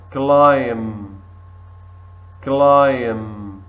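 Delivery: climb, no B at the end; model word. Shown as a demonstration. Teacher models climb loudly for students to repeat. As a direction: climb said clime, B silent, loud and clear. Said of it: "For example here".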